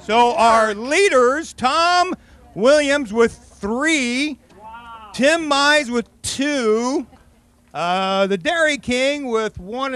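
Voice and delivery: slow ceremonial announcement of the leaders; announcer read. Acted. Host announcing the leaderboard to contestants, slow and grand. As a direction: draw out each name like a ring announcer.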